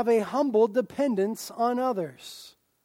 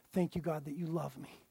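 grateful prayer; 4 semitones lower, 8 dB quieter than usual. Pretend. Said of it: "we respond with profound love".

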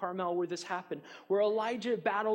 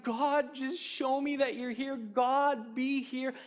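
mock scream to God; 5 semitones higher, slower than usual. Lost in the valley, crying out to God, raised voice. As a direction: call out to God, pleading. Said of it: "you scream out and you're like".

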